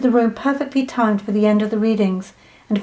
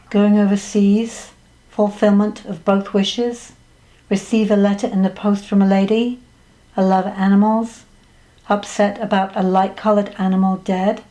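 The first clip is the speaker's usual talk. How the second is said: reading out notes. A narrator's reading. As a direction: list reading, a pause after each item. Narrator rereads the psychic's notes.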